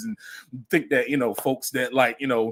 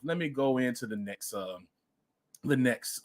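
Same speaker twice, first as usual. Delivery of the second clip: normal talking voice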